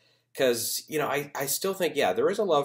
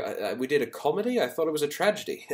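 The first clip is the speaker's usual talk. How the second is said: a hint of a badly faked accent, pitched higher; Christian Bale; 6 semitones higher than usual. Awards pundit quoting an actor's winning speech, terrible put-on accent. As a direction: lightly mimic an actor's accent, raised in mock disbelief. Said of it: "forgive the terrible accent I had on him".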